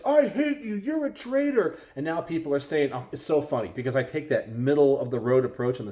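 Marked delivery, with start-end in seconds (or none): 0.0-1.8 mock hate. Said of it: "Nope, it's".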